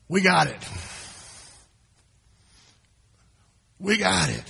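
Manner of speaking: cocky boast. Retold or imitated. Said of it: "That's not what they said".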